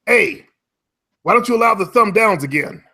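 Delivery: imitating the troll's needling question; quoting the troll. Troll pestering him about thumb downs, mock whiny. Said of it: "he asked me".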